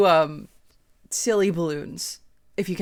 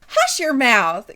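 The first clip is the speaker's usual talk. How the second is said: mock Southern belle; 6 semitones higher, 6 dB louder, slower than usual. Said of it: "intentionally being super Southern".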